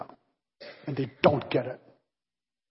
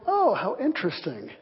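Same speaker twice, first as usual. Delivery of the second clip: a hint of feigned calm; mock composed; 3 dB quieter than usual. Pastor hides his excitement from the baker with mock composure. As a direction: keep it politely cool. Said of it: "I'm being very composed".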